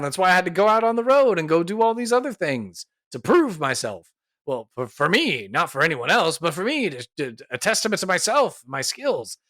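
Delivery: mock-affronted protest, pitch swinging up; indignant. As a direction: play the puffed-up hero defending his honour. The speaker acts insulted by challenge.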